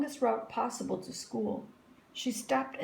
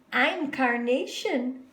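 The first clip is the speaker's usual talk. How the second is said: put-on eager girl; 5 semitones higher, 5 dB louder, slower than usual. A narrator's reading. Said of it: "said Rita".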